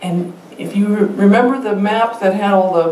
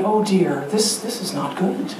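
a touch of fretful dismay, trailing softer; half-hearted oh dear, fading out; mock hand-wringing; 4 dB quieter than usual. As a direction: lightly imitate a worried hand-wringer. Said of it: "wring our hands and say".

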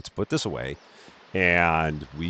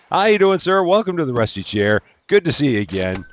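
louder and higher, a bright welcoming shout to a guest; cheery host greeting; 7 semitones higher, 5 dB louder than usual. Pretend. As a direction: play the eager club owner greeting a customer. Host greeting a beach club customer.

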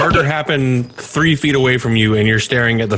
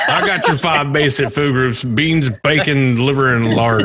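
lightly voiced cartoon cook, slowing down; gruff movie cook imitation; 2 semitones higher than usual. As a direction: list it off as a mock cook. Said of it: "sound like the cook".

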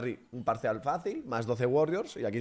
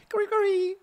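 much higher, louder cheer of Curry; cheering the name in a high yelp; excited cheer; 6 dB louder than usual. Real, not acted. (grito agudo de emoción)

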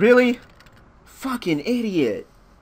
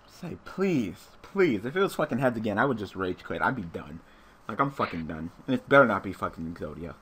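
quiet dread; 13 semitones lower, 8 dB quieter, faster than usual. Real, not acted. Dreading the coin flip result.

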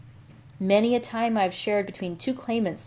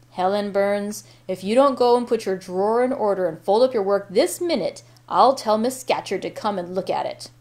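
put-on a mild Cumberland accent, a bit louder; 4 dB louder than usual. Rough monitor ordering Helen Burns, mild Cumberland accent. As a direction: scold in a light Cumberland accent. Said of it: "exclaiming in a strong Cumberland accent".

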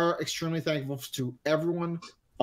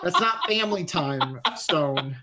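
laughing; 4 semitones higher, 4 dB louder than usual. Real, not acted. Teasing argument with Stone.

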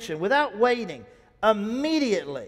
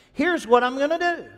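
emphatic; 6 semitones higher, 6 dB louder than usual. Shown as a demonstration. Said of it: "I just add that little thought".

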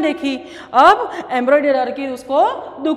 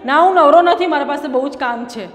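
mock brush-off. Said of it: "आपको कोई mummy बोले".

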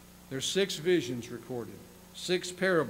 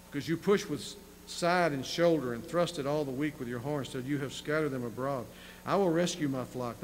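measured, slightly raised reading voice; scripture reading. Acted. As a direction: read the prophecy with weight. Preacher reads scripture aloud.

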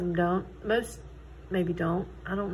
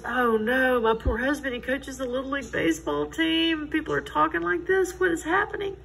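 retold dismay; 5 semitones higher than usual. Recalled panic over rumor.

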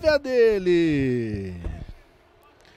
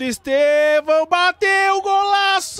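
excited shout; 10 semitones higher, 6 dB louder than usual. Real, not acted. Shot and goal.

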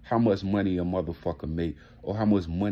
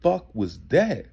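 exasperated retort; 5 semitones higher than usual. Retold or imitated. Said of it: "I'm like".

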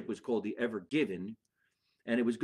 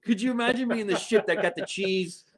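excited; 7 semitones higher, 3 dB louder than usual. Real, not acted. Excited comedic riff.

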